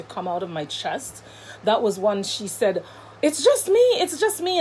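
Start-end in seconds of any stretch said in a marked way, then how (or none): 3.2-4.6 laughing reassurance. Retold or imitated. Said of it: "and she's laughing".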